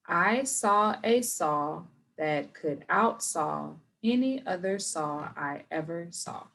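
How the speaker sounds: very slow, careful tongue twister; slow demo read; slow first try. Shown as a demonstration. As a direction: spell it out slowly. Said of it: "we do wanna start off slow".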